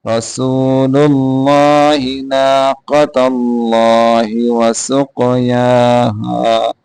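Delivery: slow, measured tajweed chant; Quran recitation. Shown as a demonstration. Teacher recites the verse for students, slow tajweed chant. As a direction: recite slowly, drawing out the vowels.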